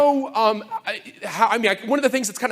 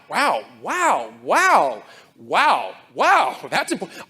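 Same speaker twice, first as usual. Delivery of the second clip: each wow leaping up and down in pitch; awed wows; 3 semitones lower, slower than usual. Retold or imitated. Young engineer reading the old conference papers, awed. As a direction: gush like a starstruck fan. Reading 1994 proceedings in awe.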